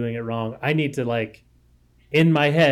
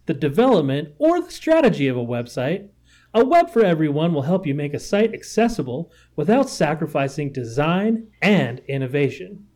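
professional narrator read; 2 semitones higher than usual. Shown as a demonstration. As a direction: read it like a trained narrator, phrase by phrase. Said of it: "somebody else that's professionally trained to read it to me".

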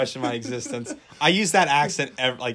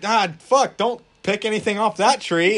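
alarmed guide; 6 semitones higher, 5 dB louder than usual. Acted. Acted guide warning tourist.

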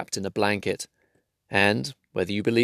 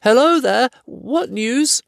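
higher hobbit calling out; 4 dB louder, slower than usual. Acted. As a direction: steadier call across the rocks. Bilbo calls out again.

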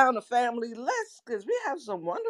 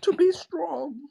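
put-on British accent, slightly raised pitch; 4 semitones higher, slower than usual. Co-host repeating the plea to listeners in a British accent. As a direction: say it in a mock British voice. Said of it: "that's my British accent".

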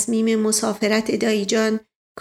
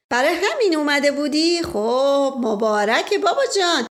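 Asdollah Mirza; 4 semitones higher than usual. Acted. Asdollah laughs and teases. (صدای شوخ اسدالله میرزا)

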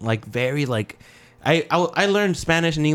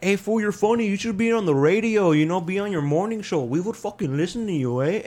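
higher, excited coworker voice; 6 semitones higher than usual. Retold or imitated. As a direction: hype up the new guy like a buddy. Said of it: "my coworker was like".

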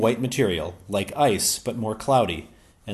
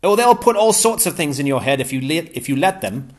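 lightly; 6 semitones higher, 8 dB louder than usual. A narrator's reading. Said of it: "said Ransom lightly".

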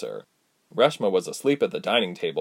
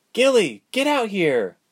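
high, louder call to someone outside; brisk shout over the shoulder; 12 semitones higher, 4 dB louder, slower than usual. Acted. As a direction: summon her with a raised, high voice.

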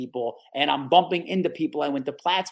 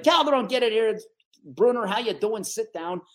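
imitating boss; 6 semitones higher than usual. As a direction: boom out a welcome as the boss. Boss greeting him into interview.

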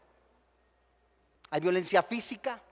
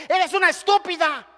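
mock husband sneering an insult, higher; contemptuous insult; 8 semitones higher, 5 dB louder than usual. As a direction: spit out the insult like a scornful husband. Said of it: "el varoncito que llega y le dice".

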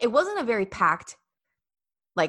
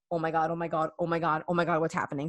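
soft, breathless oh my gods; retold quiet freak-out; hushed panic; 2 semitones lower, 4 dB quieter, faster than usual. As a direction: panic under your breath. Panicking quietly as crowd turns.

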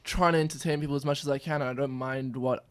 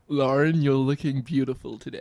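attempted American accent. Shown as a demonstration. Guest repeats a test sentence for the hosts, American accent attempt. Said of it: "I'll give you another sentence".

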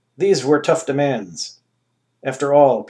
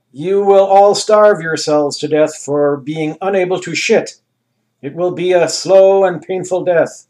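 grand ruler; 4 semitones higher, 6 dB louder than usual. Acted. Anus voice held.

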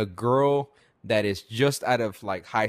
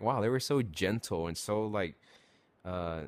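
soft awed murmur; 4 semitones lower, 9 dB quieter than usual. Retold or imitated. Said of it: "just being like".

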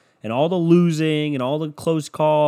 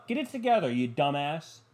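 mock scolding; 2 semitones higher, 6 dB quieter than usual. Berating himself.

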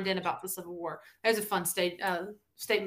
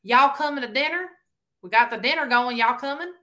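higher, louder Carolina "Y'all" call; Carolina accent; 3 semitones higher, 5 dB louder than usual. Acted. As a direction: call the family to dinner in a Carolina twang. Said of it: "that is honestly how my grandparents speak".

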